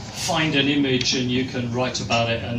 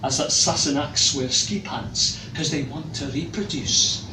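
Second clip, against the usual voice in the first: put-on Scottish accent; 3 semitones higher than usual. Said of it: "I have to do the accent".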